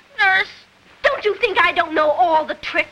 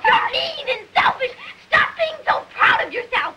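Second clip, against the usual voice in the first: angry shouting; 3 semitones higher than usual. Acted. Mary screaming back at Colin.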